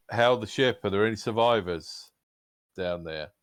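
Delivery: lightly acted shout, loudest and highest at the start; a mild call out that eases off at the end; half-hearted yell. Braxton hailing possible survivors on the ship below, mild yell. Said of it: "Braxton's gonna yell out".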